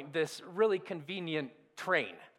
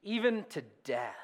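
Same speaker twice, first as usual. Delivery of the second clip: scripture reading. Acted. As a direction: read the passage like holy words. Reading the Gospel passage aloud.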